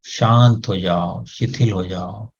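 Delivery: slow, soothing repeated command; slow calming command. Shown as a demonstration. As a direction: lull the head into stillness. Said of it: "उसको भी आदेश दें". (धीरे-धीरे शांत करता आदेश)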